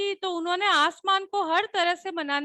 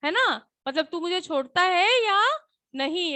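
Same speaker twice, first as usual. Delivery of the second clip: angry demand. Shown as a demonstration. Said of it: "एकदम से गुस्से में कहा".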